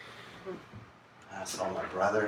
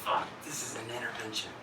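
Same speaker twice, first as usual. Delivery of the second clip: sudden realization; 3 semitones higher, slower than usual. Retold or imitated. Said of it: "And I'm like".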